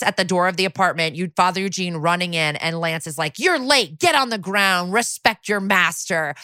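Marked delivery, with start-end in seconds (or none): 3.4-6.3 retold order, slowing to a deliberate finish; mock dominant command. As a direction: act out a bossy dom lightly. Retelling a dom's orders.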